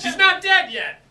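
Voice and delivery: acted outburst. Improv scene, mafia quarrel.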